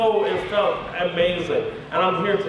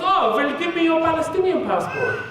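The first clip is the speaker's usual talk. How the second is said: put-on higher-pitched German-accented official; German officer; 9 semitones higher than usual. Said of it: "I'm in Germany".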